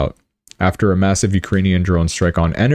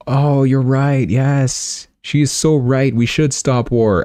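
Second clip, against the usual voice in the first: soldiers agreeing; 7 semitones higher, slower than usual. Retold or imitated.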